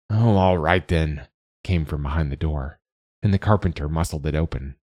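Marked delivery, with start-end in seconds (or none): 0.1-1.3 harried. Acted. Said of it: "a harried".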